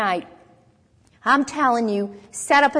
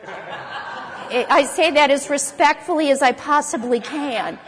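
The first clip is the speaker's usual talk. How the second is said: laughing; 2 semitones higher than usual. Real, not acted. Laughing at own bold remark.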